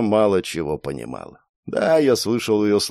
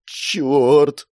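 drawn-out, higher, tense curse; trembling curse; 4 semitones higher than usual. Acted. Girl fears losing Mark, trembling curse. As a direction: force the word out, trembling. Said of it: "процедила девушка дрожащим голосом".

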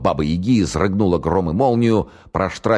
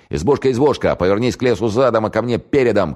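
high, ringing fairy-tale call; raised, playful challenge; shouted incantation; 6 semitones higher, 3 dB louder than usual. A narrator's reading. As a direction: call the rhyme out boldly to the house. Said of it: "крикнул старший майор".

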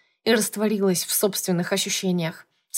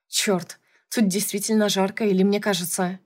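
usual speaking voice

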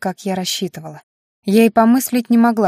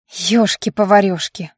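hissed. Acted. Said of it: "прошипела я".

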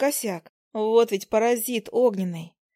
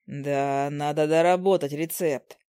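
low husband voice; 6 semitones lower, slower than usual. Acted. Husband's low dry joke.

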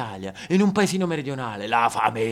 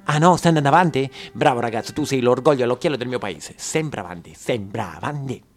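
a hint of a smug small-town mayor; lightly voiced patronizing official; pompous mayor; 2 semitones lower than usual. The mayor patronizes the young actor in a lightly smug voice. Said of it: "il sindaco sono".

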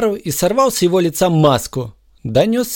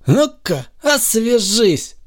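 smirking; 7 semitones higher, slower than usual. A narrator's reading. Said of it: "ухмыльнулся Супермен".

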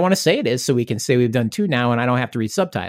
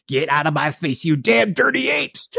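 Charlton Heston impression; 3 semitones higher, slower than usual. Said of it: "waiting for him to be like".

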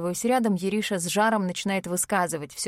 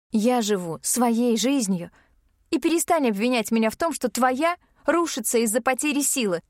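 indignant; 3 semitones higher than usual. Acted. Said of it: "с возмущением отвечаю я".

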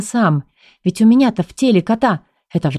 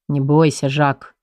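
hard grim voice; 4 semitones lower, slower than usual. Acted. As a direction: say it hard and dark. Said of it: "проговорил он жёстким мрачным голосом".

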